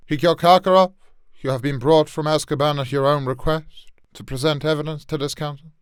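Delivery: a strained judge reading the charge; failed Crouch attempt. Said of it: "I can't do this one at all".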